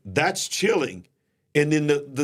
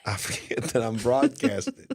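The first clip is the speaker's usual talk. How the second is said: sheepish whisper. Real, not acted. Confessing sheepishly.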